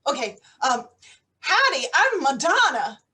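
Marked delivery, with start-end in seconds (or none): 1.4-3.0 mock American twang; fake American accent. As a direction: put on a cowboy American accent badly. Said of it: "do you want to hear accent?".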